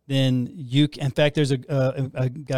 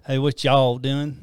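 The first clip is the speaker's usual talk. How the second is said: put-on Texas accent; 4 dB louder, slower than usual. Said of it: "how's your Texas accent coming along".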